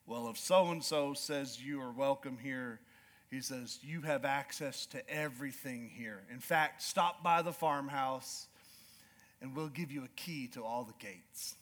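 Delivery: low, slow rancher voice; lightly slow cowboy drawl. Retold or imitated. Ranch manager granting access, a slow low drawl. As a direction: grant it easy and unhurried. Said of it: "slow, calm drawl".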